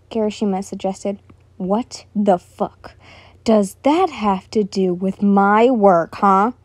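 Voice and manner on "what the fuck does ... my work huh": angry. Acted. Bakugo angry retort.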